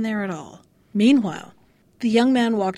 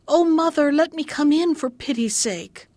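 crying out; 4 semitones higher than usual. Acted. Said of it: "and cried".

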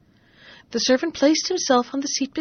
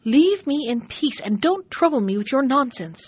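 cross; 3 semitones higher, 3 dB louder than usual. Acted. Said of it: "said the merchant quite crossly".

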